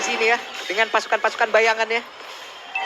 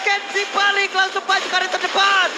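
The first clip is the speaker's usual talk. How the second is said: excited shout; 3 semitones higher than usual. Real, not acted. Casters calling a teamfight.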